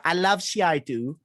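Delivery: badly attempted Welsh accent; lilting but unconvincing Welsh; terrible Welsh accent. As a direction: have a poor go at Welsh. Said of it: "I can't do a Welsh accent. That was terrible".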